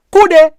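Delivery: "Kude" squealed very high and loud, falling; "Kude" popped out high and sharp; high exclaimed "kude". Shown as a demonstration. Teacher showing the sound of the word, high exclaim. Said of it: "See how it sound?".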